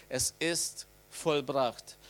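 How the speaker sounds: drawn-out, very slow final words; slow solemn last words. Retold or imitated. Preacher voicing Jesus's dying words, slow and solemn. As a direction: let each word fall slowly, like a last breath. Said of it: "dass er sagte".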